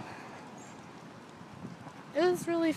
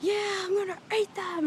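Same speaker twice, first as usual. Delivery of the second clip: teasing; 9 semitones higher, 3 dB quieter than usual. Retold or imitated. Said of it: "And they were like".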